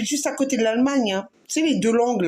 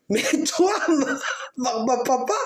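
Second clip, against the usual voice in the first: ordinary delivery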